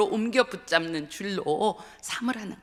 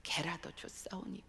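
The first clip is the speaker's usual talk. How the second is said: humble recollection; 7 dB quieter than usual. Retold or imitated. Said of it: "했던 그 가난했던 마음의 자리로".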